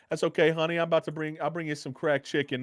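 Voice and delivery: a touch of a kind auntie promising food; sweet older lady. Retold or imitated.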